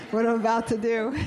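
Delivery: laughing. Real, not acted. Choir knows the yawn drill.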